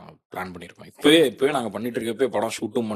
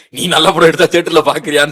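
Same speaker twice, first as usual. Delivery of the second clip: louder, higher, accusing jab; mock scolding; 5 semitones higher, 11 dB louder than usual. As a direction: throw it back as a loud reproach. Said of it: "செருப்பு கழட்டி அடிச்ச மாதிரி". (கேலியா உரக்கத் திட்டுற குரல்)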